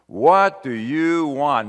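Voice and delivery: slow and loud, every word weighted; "What do you want?" drawn out loud and slow, leaning on "What"; slow pressing question. Acted. Preacher asks the congregation directly, slow and loud.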